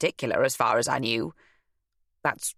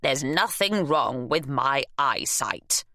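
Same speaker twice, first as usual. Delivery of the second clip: huffy; slower than usual. Acted. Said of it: "Nell huffed".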